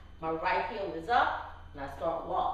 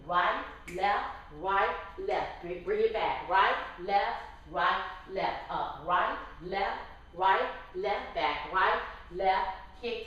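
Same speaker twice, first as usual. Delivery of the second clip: calling out dance steps. Shown as a demonstration. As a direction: bark each step on the beat. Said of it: "I'm gonna call out the steps".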